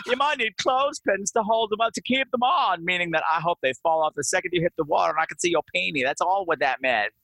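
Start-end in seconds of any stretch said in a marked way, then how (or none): 0.1-6.0 lightly imitated over-wide vowels; wide-mouthed Hilda. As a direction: stretch every vowel in mock socialite style. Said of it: "those over wide vowels".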